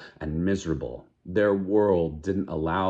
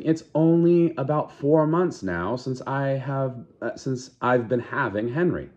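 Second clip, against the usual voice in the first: protesting; 6 semitones higher than usual. Acted. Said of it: "Lenina was protesting".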